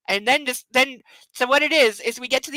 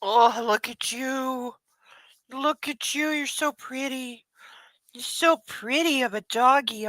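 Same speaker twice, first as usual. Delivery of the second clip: slow, soft adoring coo; slow soft doggy talk; 3 dB quieter than usual. Real, not acted. Owner softly cooing over her pretty dog. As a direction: gently admire a sleepy dog.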